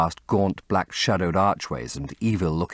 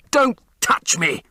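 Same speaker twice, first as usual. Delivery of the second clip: high, louder and slow cry; cried out; 11 semitones higher, 5 dB louder, slower than usual. Acted. Dorian thrusting Sibyl back, crying out slowly. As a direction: recoil and cry out, pushing her away. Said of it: "he cried".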